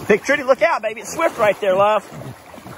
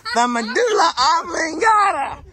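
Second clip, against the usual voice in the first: words through real laughter, higher; laughing; 8 semitones higher than usual. Real, not acted. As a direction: laugh while repeating it. Laughing at the dub.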